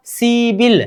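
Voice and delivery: "सिबिल" as a long see, then bil; correct pronunciation. Shown as a demonstration. Teacher models the changed sound for students, "सिबिल" pronounced with b. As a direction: say "सिबिल" with b in place of p. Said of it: "ग्यारह को बोलेंगे".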